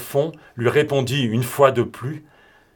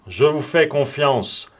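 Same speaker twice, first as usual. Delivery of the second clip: ordinary delivery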